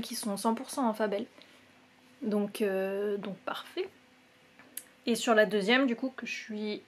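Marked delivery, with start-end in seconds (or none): 3.2-3.9 a satisfied little whisper to herself; whispered aside. Real, not acted. Knitter pleased with her socks, whispered. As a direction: breathe it out in a whisper.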